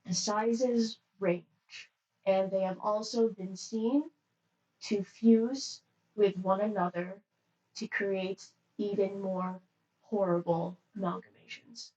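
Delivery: strong, even monotone attendant. Acted. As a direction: speak with no rise or fall. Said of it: "monotone voice".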